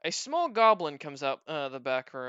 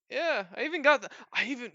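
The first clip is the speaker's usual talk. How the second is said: high-pitched goblin bragging; boastful goblin; 10 semitones higher, 4 dB louder than usual. Acted. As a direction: brag as a little goblin, pitched up.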